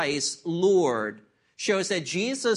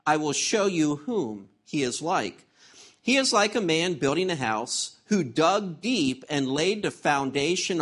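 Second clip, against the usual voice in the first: scripture reading. Acted. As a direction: read the passage out with full pulpit weight. Reads scripture aloud.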